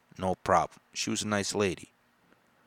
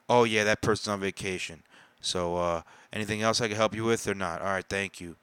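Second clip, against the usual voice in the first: imitating a clerk rattling it off fast; mock impatient postal clerk speeding through; rushed brush-off. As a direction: hurry through it like a bored clerk. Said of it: "literally in that speed".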